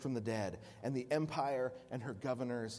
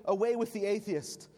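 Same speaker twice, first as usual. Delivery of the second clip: raised and higher, a commanding call; proconsul's demand; 7 semitones higher, 4 dB louder than usual. Acted. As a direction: order him to denounce them.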